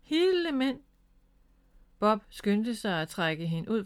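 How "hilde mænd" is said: high-pitched cry of dismay; exclaim, taken aback; startled exclamation. A narrator's reading. Bob learns of the bees, startled exclamation. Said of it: "udbrød han".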